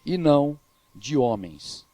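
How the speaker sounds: slow, with weighty pauses; crowd's acclamation. Retold or imitated. People acclaiming Herod as a god, slow retold proclamation. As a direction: finish the crowd's cry word by word. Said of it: "Olha o que, que o povo clamava".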